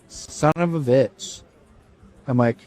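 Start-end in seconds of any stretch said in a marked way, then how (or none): 0.1-1.4 slow, hushed curse; stunned dismay. Retold or imitated. Man learning his friend has passed, hushed dismay. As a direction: let it out softly and slowly, in shock. Retold reaction to friend's death.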